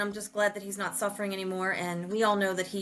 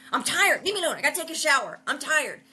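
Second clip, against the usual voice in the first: higher, whiny grumble; whiny tired Ralph; 5 semitones higher than usual. Retold or imitated. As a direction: grumble like a worn-out man. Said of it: "Ralph's like".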